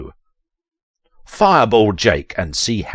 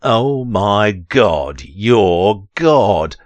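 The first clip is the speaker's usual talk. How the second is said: mock awe; 5 dB louder, much slower than usual. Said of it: "You say".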